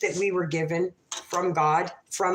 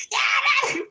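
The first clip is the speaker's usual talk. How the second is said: shout from afar. Retold or imitated. Yelling to a man a football field away. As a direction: belt it out to someone far off. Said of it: "I'm screaming it".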